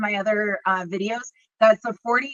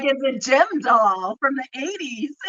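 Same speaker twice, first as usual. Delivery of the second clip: laughing; 4 semitones higher than usual. Retold or imitated. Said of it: "I'm like".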